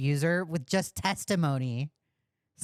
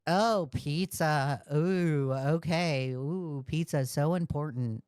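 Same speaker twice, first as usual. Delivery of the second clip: mock impressed; 2 semitones lower than usual. Streamer mocking a caller's boast about friends, mock impressed. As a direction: pretend to be impressed, drawing out the oohs. Mocks his name-dropping of friends.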